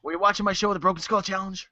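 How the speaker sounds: gruff interviewer voice; Stone Cold interviewer. Retold or imitated. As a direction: ask like a Texan podcast host. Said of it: "Talking to Tommy".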